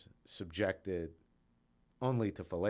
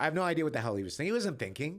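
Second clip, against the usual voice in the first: exasperated; 9 semitones higher, 4 dB louder, much faster than usual. Real, not acted. Exasperated about the lawyer, laughing.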